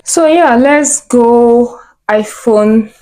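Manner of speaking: excited. Real, not acted. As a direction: draw it out, thrilled to go shopping. Excited sign-off for shopping.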